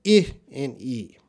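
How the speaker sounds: I and E said quickly, back to back; quick recap of the two vowel sounds; quick vowel demo. Shown as a demonstration. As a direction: rattle off the two vowels fast. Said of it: "I'm gonna say that quick".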